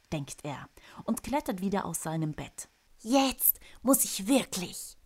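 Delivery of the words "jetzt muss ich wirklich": impatient. Acted. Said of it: "sagt er ungeduldig zu sich selber".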